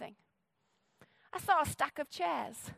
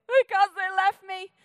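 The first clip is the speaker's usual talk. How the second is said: louder, slower, mock sulky complaint; a mock-pouty "they left me"; whiny excuse; 4 semitones higher, 7 dB louder, slower than usual. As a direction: whine it like a hurt churchgoer.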